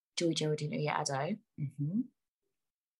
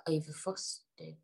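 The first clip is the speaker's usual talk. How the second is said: slow whispered word; slow hushed whisper; 8 dB quieter, slower than usual. Real, not acted. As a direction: breathe the word out softly, drawn out. Lingers on a made-up word.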